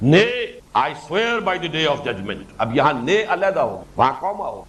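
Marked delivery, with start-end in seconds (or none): 0.1-2.4 Nay on its own before the slower oath; pause after Nay. Shown as a demonstration. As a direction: hit Nay, pause, then slowly read the rest. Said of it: "انگریزی میں اس کے لیے کوما ہے".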